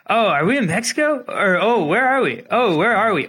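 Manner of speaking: high, puzzled mock questioning; concussed rider imitation. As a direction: imitate someone dazed, asking over and over. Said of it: "concussed. And he's from Australia".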